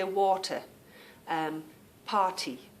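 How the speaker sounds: "water, party" with crisp T and no R; clear T. Shown as a demonstration. Showing her own way, "water, party" with real T. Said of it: "when we say a T".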